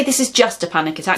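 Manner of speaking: quick, brushing it off with "just"; dismissive. Shown as a demonstration. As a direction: minimise it, as if it's nothing. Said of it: "Don't say".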